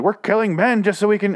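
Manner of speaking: high, loud retold scream; mock scream. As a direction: imitate her yelling her plan into the phone. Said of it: "She's just screaming into her phone".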